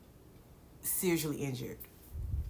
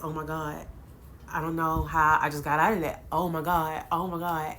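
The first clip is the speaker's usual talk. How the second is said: retold bawling; 4 dB louder than usual. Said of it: "I'm just bawling".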